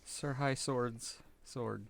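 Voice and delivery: usual speaking voice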